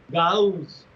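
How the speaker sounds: "Gauss" pronounced carefully as two syllables, Gau-s; "Gauss" carefully split into two syllables; careful pronunciation. Shown as a demonstration. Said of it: "There are two syllables, please be very careful".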